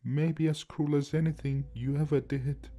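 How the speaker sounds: put-on slow, resigned old man; tired, dejected. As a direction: give in, worn out. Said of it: "he said with a tired, dejected voice".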